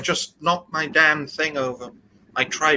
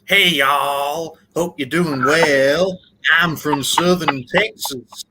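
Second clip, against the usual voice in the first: American accent; 3 semitones higher than usual. Shown as a demonstration. Guest performs on host's request, exaggerated American accent. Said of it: "give me your best, uh, American accent".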